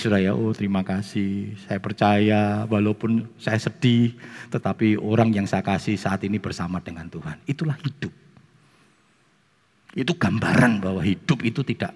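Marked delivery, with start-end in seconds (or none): 0.3-7.5 understated weepy faith; mild tearful thanks. Retold or imitated. Mourner thanks friends and trusts God, mildly tearful. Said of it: "Walaupun mbek nangis".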